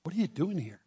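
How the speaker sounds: very soft, gentle question; soft voice of God asking Elijah; still small voice. Retold or imitated. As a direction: lean in and ask it quietly. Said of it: "says in a still small voice".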